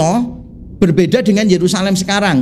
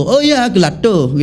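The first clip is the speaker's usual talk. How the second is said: put-on Balinese accent. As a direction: mimic the Bali vendor's gelado, unhurried. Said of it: "orang Bali keluarnya begitu".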